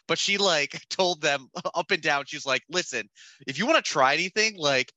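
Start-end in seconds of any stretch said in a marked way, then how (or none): 2.7-4.9 imitating a sister's stern telling-off; higher-pitched mock lecture to some kids; retold warning with emphatic words; borderline threatening. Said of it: "borderline threatening them to be like".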